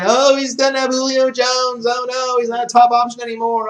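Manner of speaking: high, loud whiny panic voice; mock worried fantasy owner, high and loud; mocking panicky fans. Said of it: "Everyone was saying".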